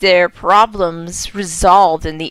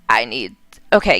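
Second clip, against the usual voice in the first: Vera's low voice; 10 semitones lower, faster than usual. Acted. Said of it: "yeah, that's her voice".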